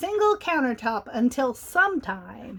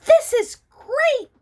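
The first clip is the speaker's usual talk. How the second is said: very high, loud, stretched-out joy; excited cry; 13 semitones higher, 7 dB louder, slower than usual. Acted. Benny the cat thrilled on the sled, excited and high. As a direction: whoop with delight on the sled. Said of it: "Benny cried".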